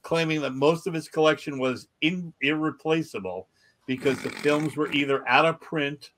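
measured article read-out; news story read aloud. Acted. Podcast host reads odd news to co-hosts, news read-out.

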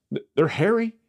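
high, amazed burst; excited marvel. Real, not acted. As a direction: gush about how hairy they are. Marvelling at baby goats.

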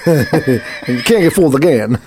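slow mock quote. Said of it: "laughing at Bush quote".

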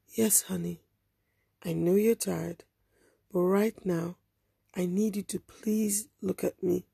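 soft slow reassurance; hushed patient coaxing; gentle urging. Retold or imitated. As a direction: keep her with you gently. Woman soothing girl.

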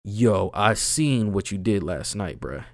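low, slow mock accusation; imitating menacing starers. Imagined strangers staring him down in the store, mock menacing. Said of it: "Niggas were looking at me like".

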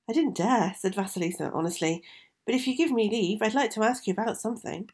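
put-on timid young girl. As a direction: ask shyly like a frightened girl. Vasilisa answers timidly.

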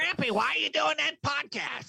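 put-on high childlike whine; granddaughter voice. Cohost teases grandpa by mimicking his granddaughter, high and childish. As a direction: pitch up like a curious little girl.

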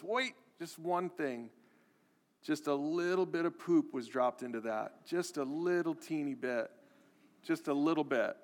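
mom's quiet sweet offer, lightly imitated; mom's voice, softly. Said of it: "and she says".

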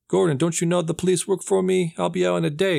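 cocky boss sure he'll walk free; smug Falcone taunt. Retold or imitated. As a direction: sneer it at the commissioner. Gangster taunting Gordon from custody.

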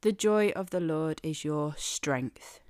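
the given the weight at the start; first word the leaned on, line falls; stress on the. Shown as a demonstration. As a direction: tap the opening word the. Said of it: "emphasize different parts of this phrase".

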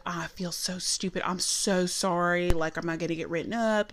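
apologetic Southern server impression, stretched words; Southern accent. Manager mimicking server afraid of a write-up, Southern accent. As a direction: plead sorry like a very Southern waitress. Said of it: "do an impression of her voice".

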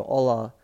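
hola said as "OH-la", no H sound; silent H in hola. Shown as a demonstration. Teaching listeners Spanish hello, hola with silent H. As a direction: drop the H and open hola on the O. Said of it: "they don't pronounce their H's".

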